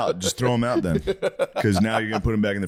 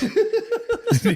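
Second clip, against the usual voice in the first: high squeal laugh. Real, not acted. Laughing at own quote.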